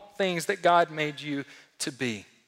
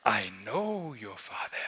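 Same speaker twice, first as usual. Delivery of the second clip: mock Rafiki voice; 7 semitones lower, 6 dB quieter than usual. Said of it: "you guys know where this is going?".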